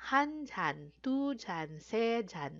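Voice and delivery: slow, careful Korean counting; Korean counting demo. Shown as a demonstration. Teacher modeling Korean counting for learners, careful. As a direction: count each word out clearly. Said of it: "tawag po natin ay chan".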